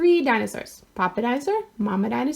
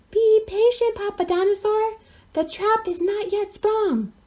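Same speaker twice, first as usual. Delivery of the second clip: scheming dinosaur; 10 semitones higher, slower than usual. A narrator's reading.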